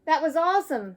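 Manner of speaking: put-on loud high delighted kid; thrilled. Arthur after the parachute jump, loud and thrilled. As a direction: burst out with joy.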